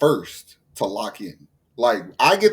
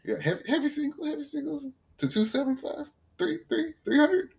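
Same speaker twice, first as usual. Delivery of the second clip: hammed-up bro brag; 14 semitones higher, 6 dB quieter than usual. Mock bragging about lifting numbers.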